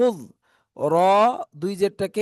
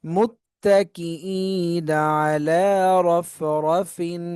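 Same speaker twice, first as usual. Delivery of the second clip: very slow, drawn-out chanted recitation; slow Quran recitation; much slower than usual. Shown as a demonstration. Teacher recites the full verse for students, slow chant. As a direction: chant the whole verse slowly.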